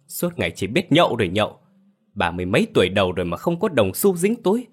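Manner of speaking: high, scornful shouting; khinh bỉ gào mắng. Acted. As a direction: tear him down with contempt. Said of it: "Hồng gào lớn". (gào mắng khinh miệt)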